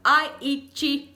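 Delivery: "eat" as EE-chee; wrong extra syllable. Shown as a demonstration. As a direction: Brazilian two-beat "eat". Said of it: "E não".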